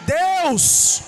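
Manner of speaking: tearful prayer. Retold or imitated. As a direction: pray as if near tears, climbing in pitch. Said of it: "e eu chorando".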